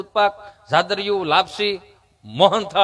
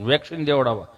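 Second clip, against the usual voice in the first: imitated halting stammer, pitched down; stammering friend; 6 semitones lower, 3 dB quieter than usual. Friend telling comedian he's going for vaccine, imitated stammer. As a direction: play the friend whose tongue sticks. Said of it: "જીભ જલાઈ ચોંટે અટકે".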